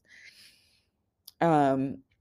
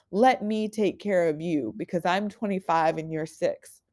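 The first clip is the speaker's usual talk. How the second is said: put-on tender talk to inner child; 3 semitones higher than usual. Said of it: "I talk to her and I tell her".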